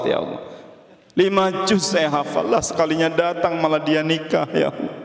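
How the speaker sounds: wailing complaint to God; plaintive, half-sobbed pleading; mock crying. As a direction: act out a tearful, hammed-up lament. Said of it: "dia nangis".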